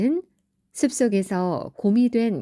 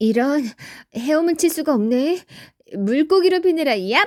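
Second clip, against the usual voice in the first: flustered, hurried, higher character voice; 6 semitones higher, 4 dB louder than usual. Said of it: "뾰족한 귀에 염소 발굽을 가진 판이 바로 염소자리의 주인공이란다. / 뾰족한 귀에 염소 발굽을 가진 판이 바로 염소자리의 주인공이란다".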